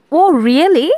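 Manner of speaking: bright surprised "Oh really?" with a lift on "oh". Shown as a demonstration. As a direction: sound genuinely surprised at the news. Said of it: "অর্থাৎ তুমি surprised".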